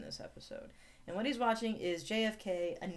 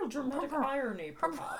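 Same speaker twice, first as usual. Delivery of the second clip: higher-pitched hammed-up British accent; mock British accent; 6 semitones higher than usual. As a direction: put on a comic British voice. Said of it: "This is how they'll all talk".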